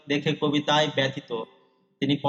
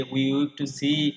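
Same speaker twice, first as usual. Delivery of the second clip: very slow, drawn-out "we weep to see"; poem recitation; much slower than usual. Shown as a demonstration. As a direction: stretch each word as in recital. Recites quote before glossing it. (কবিতার line খুব ধীরে আবৃত্তি)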